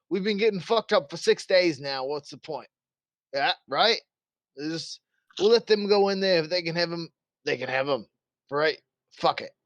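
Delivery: a hint of an officer giving in; fed-up guard captain. Game master plays fed-up captain.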